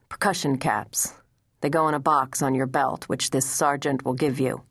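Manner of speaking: a hint of the stern commander sending the boy off; understated commanding officer's voice; stern general's order.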